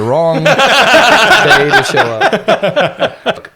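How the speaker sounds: words bursting into loud laughter; laughing while talking. Real, not acted. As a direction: break up laughing mid-sentence. Cracking up over the ballgame joke.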